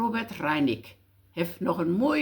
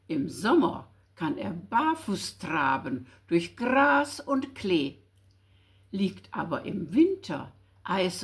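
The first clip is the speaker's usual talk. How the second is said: put-on lightly lively children's verse recital; poem recitation. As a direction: recite the verse in measured phrases with playful emphasis.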